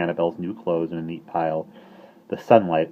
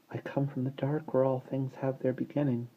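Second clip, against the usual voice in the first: soft mystic; 7 semitones higher, 7 dB quieter than usual. Acted. Baby mystical recitation.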